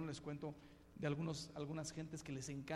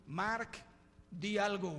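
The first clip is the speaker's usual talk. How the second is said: mock preacher call; 3 semitones higher, 5 dB louder, slower than usual. Preacher calling out.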